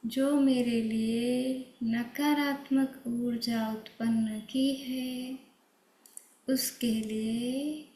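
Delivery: slow, tender forgiveness; said with love. Shown as a demonstration. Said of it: "और बहुत प्यार से". (बहुत प्यार से धीमे-धीमे क्षमा करना)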